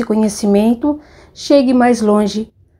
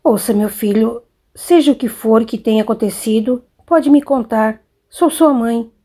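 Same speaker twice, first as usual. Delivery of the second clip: complicit tone. Acted. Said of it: "mudou o tom de voz e disse, tentando imprimir-lhe cumplicidade".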